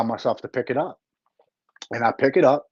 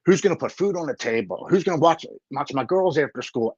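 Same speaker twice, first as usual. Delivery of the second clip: higher-pitched string of worried objections; retold excuse-making; 4 semitones higher than usual. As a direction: pile up excuses as if arguing with yourself. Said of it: "Every other excuse other than".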